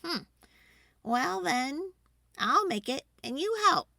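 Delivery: lightly voiced mother giving in; Ma agreeing. A narrator's reading. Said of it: "Ma agreed".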